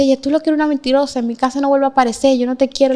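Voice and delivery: heated retelling of a mother's rebuff; retold angry rejection. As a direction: imitate a mother telling off her daughter, rapidly. Mother rejecting daughter in retold quarrel.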